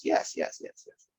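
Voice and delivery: breathy whispered yes, yes, fading out; whispered yeses. Retold or imitated. Coach voices a client's quiet realization, whispered.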